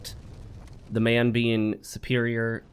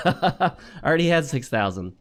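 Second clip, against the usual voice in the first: laughing through the words; 3 semitones higher than usual. Real, not acted. Streamer realizing his own mistake, laughing. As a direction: laugh at your own slip.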